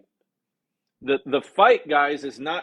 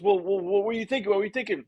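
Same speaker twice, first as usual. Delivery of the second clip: mock panic; 7 semitones higher, much faster than usual. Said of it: "And he's panicking".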